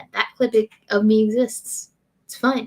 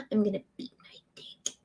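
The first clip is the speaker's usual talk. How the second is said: whisper; 10 dB quieter, faster than usual. Pretend. Whispered lyric.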